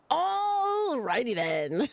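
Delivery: slow drawn-out Ace Ventura line; Ace Ventura impression. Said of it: "call me Dream Ventura".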